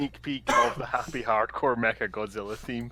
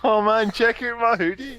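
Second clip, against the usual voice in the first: put-on Glasgow street accent; 9 semitones higher, 6 dB louder than usual. Continuing Ned voice.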